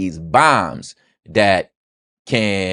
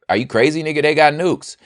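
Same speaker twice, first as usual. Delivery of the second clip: mock incredulous; 7 semitones higher than usual. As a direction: play dumb bafflement. Mocking nuclear double standard.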